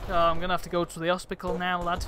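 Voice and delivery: exaggerated northern lad accent; put-on northern accent. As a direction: rattle it off in put-on northern English. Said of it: "isn't in the doing the accents".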